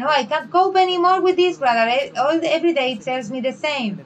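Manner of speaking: mock fed-up church member, at the end of his rope; complaining about a brother, exasperated whine; exasperated complaint. Quoting impatient church member.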